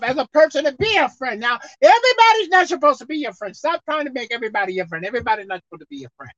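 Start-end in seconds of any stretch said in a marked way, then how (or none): 5.0-6.3 fast and soft, under the breath; soft rushed mutter; quick quiet aside. Real, not acted. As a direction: toss it off lightly. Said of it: "I'll say it again".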